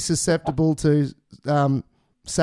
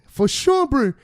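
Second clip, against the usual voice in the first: squeaky high voice; 7 semitones higher, 4 dB louder, slower than usual. Pretend. Very high silly voice.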